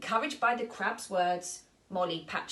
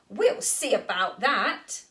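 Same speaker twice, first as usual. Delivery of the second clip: louder, slower cheerful vow; 7 dB louder than usual. Acted. Molly answers the astronaut, cheerful and determined. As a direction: say it brightly with pluck. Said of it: "said Molly cheerfully".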